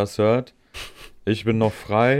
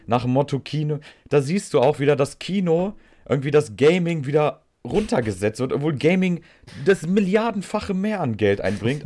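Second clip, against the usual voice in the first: heated rant; 6 semitones higher than usual. Real, not acted. Ranting about film vs gaming.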